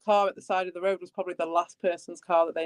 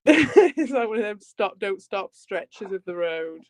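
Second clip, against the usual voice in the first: laughing; slower than usual. Real, not acted. Laughing while describing road.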